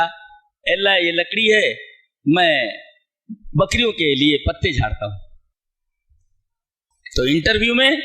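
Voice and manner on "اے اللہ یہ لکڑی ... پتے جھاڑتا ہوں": slow, lightly voiced humble reply; humble Moses. Preacher voicing Moses answering God, slow and humble. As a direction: answer plainly and slowly, like a humble servant.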